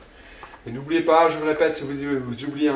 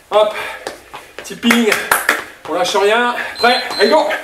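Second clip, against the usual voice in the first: gym bro; 3 semitones higher than usual. Real, not acted. Coach lance le round.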